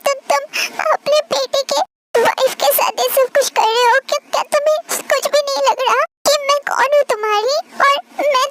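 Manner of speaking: put-on a young wife's panicked protest; pleading. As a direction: beg him in disbelief. Tae pleading with the king.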